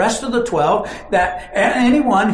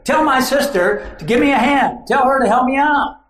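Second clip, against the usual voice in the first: exasperated plea; 7 semitones higher, 4 dB louder than usual. Acted. Martha complaining to Jesus.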